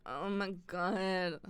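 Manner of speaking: slow, drawn-out swoon; dreamy awe. Retold or imitated. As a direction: sigh it out slowly in admiration. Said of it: "I'm always like".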